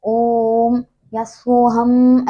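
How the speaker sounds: slow, stretched long vowel on ओम; teacher stretching the pluta vowel; drawn-out vowels. Shown as a demonstration. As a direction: hold the vowel of ओम and सोहम out long. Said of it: "ये आप अपने आप मान सकते हैं कि".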